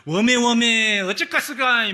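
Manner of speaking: loud, folksy Jeolla dialect exclamation. Retold or imitated. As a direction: belt it out in a homely Jeolla dialect. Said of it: "구수한 전라도 사투리". (구수한 전라도 사투리로 크게)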